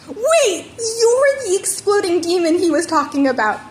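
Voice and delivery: high, loud excited exclamation; surprised realization. Acted. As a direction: it clicks all at once. Sudden realization about Bakugo.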